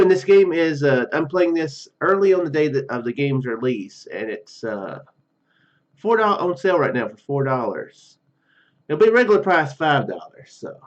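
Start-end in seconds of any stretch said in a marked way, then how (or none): none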